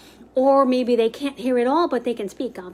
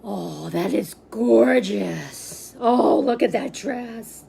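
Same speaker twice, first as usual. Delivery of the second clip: admiring; slower than usual. Shown as a demonstration. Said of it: "you can say".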